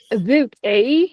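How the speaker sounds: mock Canadian "a boot, eh"; playful Canadian accent. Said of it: "Was that a good Canadian accent?".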